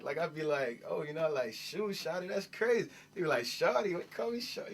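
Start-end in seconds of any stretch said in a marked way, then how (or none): 0.9-2.9 a hint of Miami Southern talk; Southern slang. Boy shows cousins his Southern accent, mildly imitated. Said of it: "my down south accent". 3.4-4.7 hammed-up New York "call me shawty?"; mock New York reaction. New York cousins mock his Southern word, high and incredulous.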